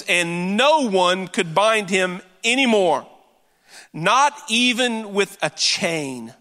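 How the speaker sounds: slow, weighty scripture reading; slow solemn Bible reading to the congregation. Acted. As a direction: read it out slow and deliberate, letting each phrase land. Reads scripture slowly.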